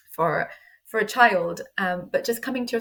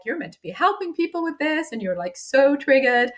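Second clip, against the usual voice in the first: self-judging; 5 semitones higher than usual. Retold or imitated. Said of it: "I was totally judging myself".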